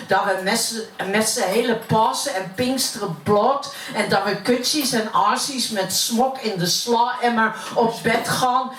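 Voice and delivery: poem recited in plat Utrechts dialect; broad Utrecht accent. Acted. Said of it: "ik uit Utrecht kom". (plat Utrechts accent)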